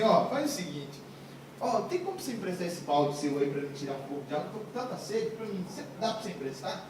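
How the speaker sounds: acted low, softened asking; soft polite request. Hypothetical politer request by Jesus. (pedido educado em voz baixa)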